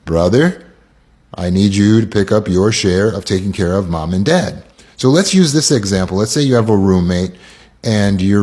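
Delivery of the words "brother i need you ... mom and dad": matter-of-fact request, pitched down; direct assertive statement. Shown as a demonstration. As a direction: state it plainly and evenly. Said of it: "Say the same thing without the how to".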